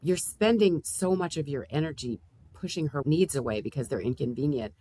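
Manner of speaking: gentle therapist questions; calm therapist. Pretend. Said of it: "our individual client right now".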